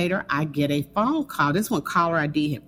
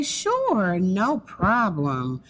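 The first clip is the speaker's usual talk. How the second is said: drawn-out yes; 3 semitones higher, much slower than usual. Retold or imitated. Agreeing again, rent rising.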